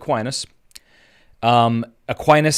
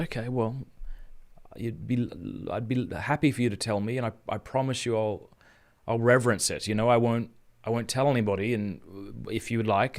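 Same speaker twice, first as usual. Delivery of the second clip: soft reassurance; 6 dB quieter than usual. Retold or imitated.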